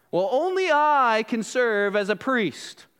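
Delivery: imitated boasting, drawn out; bragging. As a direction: declare it like a self-important Levite. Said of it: "they're all bragging to one another".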